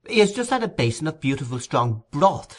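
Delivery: strong, slightly offended stress on "broth"; emphasis on broth. A narrator's reading. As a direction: lift the line and lean hard on "broth". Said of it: "laying strong emphasis on the last word".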